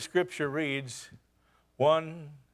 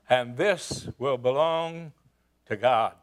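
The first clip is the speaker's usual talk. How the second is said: solemn vow; 4 semitones lower, slower than usual. Acted. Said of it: "the tenor of the whole thing changed".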